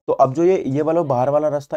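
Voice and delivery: loud pointed classroom emphasis; emphatic teacher. Real, not acted. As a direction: push it out to grab the class. Teacher emphasizing outer path.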